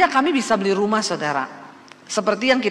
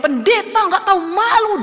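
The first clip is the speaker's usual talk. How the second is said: much higher, loud raging jeer; furious insult; 10 semitones higher, 4 dB louder than usual. Retold or imitated. Debt collector raging at the pastor at her door. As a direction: shame her so the neighbours hear. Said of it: "Dia ngamuk".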